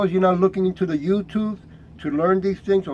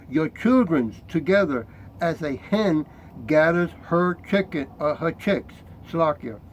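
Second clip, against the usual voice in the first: scripture reading. Acted. Reads scripture aloud.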